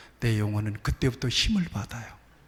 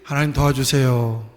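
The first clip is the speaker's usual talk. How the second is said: a louder plea, not a weak one; louder prayer demo; 5 dB louder than usual. Shown as a demonstration. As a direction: call out a louder plea to God. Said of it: "해봐".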